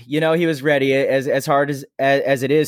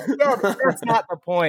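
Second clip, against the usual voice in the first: slow exasperated reply; 5 semitones higher, slower than usual. Retold or imitated. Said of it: "I'm like".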